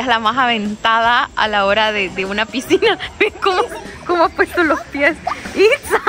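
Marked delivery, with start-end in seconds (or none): 3.2-6.0 high call across the water. Real, not acted. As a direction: call her name from afar. Calling a friend across pool.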